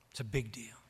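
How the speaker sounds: a soft, hushed whisper of big deal; whispered again, quiet and intimate. Shown as a demonstration. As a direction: drop to a whisper to drive it home.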